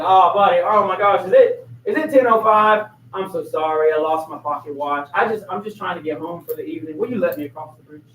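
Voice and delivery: butter up the guard to get across; sweet talking. Retold or imitated. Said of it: "He sweet talks the soldier".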